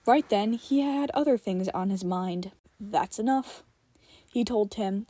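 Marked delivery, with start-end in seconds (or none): 2.8-3.6 firm. Acted. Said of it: "his voice firm".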